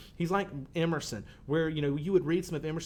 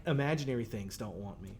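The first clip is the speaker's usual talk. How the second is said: ordinary talk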